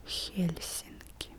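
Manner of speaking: Helsinki said slowly and softly with a strong H; soft, drawn-out Helsinki, its H made with the tongue near the palate; strong Russian H. Shown as a demonstration. Teacher repeating the Russian H for learners, strong H in Helsinki. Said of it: "stronger than the English H".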